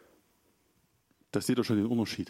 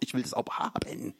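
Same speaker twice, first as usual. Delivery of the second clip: put-on whispered childish demand; whiny child; 4 dB quieter than usual. Child insisting in the shop, whispered mock whine. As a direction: breathe out the kid's stubborn want.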